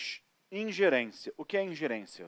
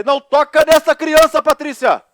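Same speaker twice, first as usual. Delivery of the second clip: grito agudo e bem mais alto; shouted warning; 11 semitones higher, 15 dB louder than usual. Retold or imitated. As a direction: gritar para a esposa parar. (grito de alerta para a Patrícia)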